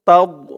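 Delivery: তাওদ with a full, heavy final d; heavy Arabic dad. Shown as a demonstration. Teacher shows careful pronunciation, তাওদ with a heavy dad. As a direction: fill the mouth on the end of তাওদ. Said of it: "মুখটা একটু ভরপুর হয়ে যাবে".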